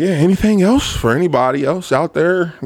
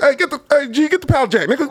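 coworker calling; 12 semitones higher than usual. Retold or imitated. White coworker calling for the pallet jack, raised voice. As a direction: shout over factory noise.

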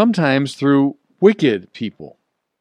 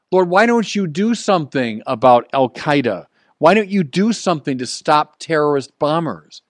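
pleading with the Lord; 2 semitones higher than usual. Acted. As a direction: cry out to God, demanding answers. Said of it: "We might say".

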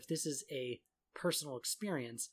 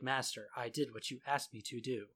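flat, even mock game voice; monotone. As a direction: drone it like a bored game hero. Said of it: "Monotone, monotone".

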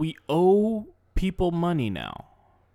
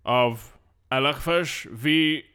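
slow, formal bailiff call; lightly voiced court clerk; court announcer; slower than usual.

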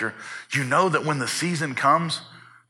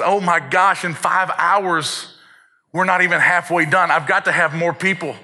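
alarmed realization; 4 semitones higher, 5 dB louder than usual. Retold or imitated. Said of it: "then they would realize".

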